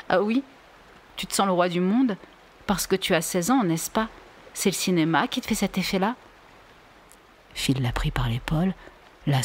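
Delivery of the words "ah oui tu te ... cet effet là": raillerie plus haute, un peu plus rapide à la fin; Vinka ironique. Acted. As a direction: moquerie piquante pour cacher les larmes. (Vinka humiliée raille Phil, voix plus haute)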